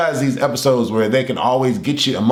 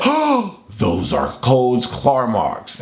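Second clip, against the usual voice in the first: retold shocked realization; much slower than usual.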